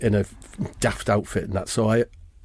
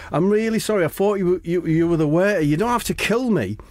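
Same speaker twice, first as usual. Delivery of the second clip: high-pitched mock begging; acted panicky plea; pleading apology; 6 semitones higher than usual. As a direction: plead for your life, voice raised high. Retold begging for life.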